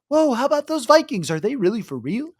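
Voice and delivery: high, loud mocking gasp; mock surprised fan. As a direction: gush like a stunned fan.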